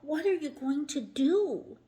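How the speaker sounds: high, loud worried plea; alarmed cry. A narrator's reading. Rock crying out worried at the boy. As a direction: beg to know in alarm. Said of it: "cried Rock".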